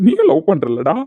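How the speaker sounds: ordinary talk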